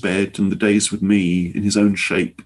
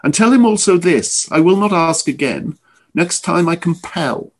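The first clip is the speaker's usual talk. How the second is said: cold menacing threat; 8 semitones higher than usual. A narrator's reading. Morton's final threat.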